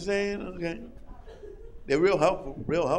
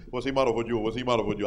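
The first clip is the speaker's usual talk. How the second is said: light Spanish accent imitation; hint of a Spanish accent, low and soft; mild imitated Spanish accent; 10 semitones lower, 6 dB quieter, much faster than usual. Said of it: "they still got the Spanish accent".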